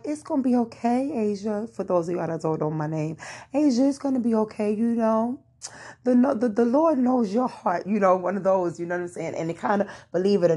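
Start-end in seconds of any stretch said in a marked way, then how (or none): 0.0-1.7 a hint of cheering mom, higher; lightly voiced mother reassuring her; imitating mom. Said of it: "my mom is more like a cheerleader". 3.5-7.9 higher, fast, cheering mother; bubbly mom pep-talk, pitched up; imitating cheerleader mom. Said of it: "my mom is more like a cheerleader".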